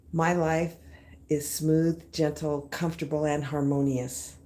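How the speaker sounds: calm affirmation. Shown as a demonstration. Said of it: "the favorite things that I've begun saying".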